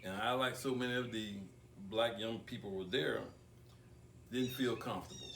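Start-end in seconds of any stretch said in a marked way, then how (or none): 4.3-5.2 "comfortable" stretched and weighted as the key word; emphasis on comfortable. Real, not acted. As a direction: lean hard on the word "comfortable.". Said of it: "I put emphasis on the word comfortable".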